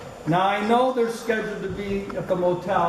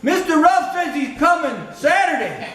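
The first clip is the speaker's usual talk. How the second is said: put-on southern accent of a motel clerk, pitched higher, through laughter; mock southern motel clerk voice, barely holding back a laugh; 8 semitones higher than usual. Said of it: "So I try to use a southern ac-, accent".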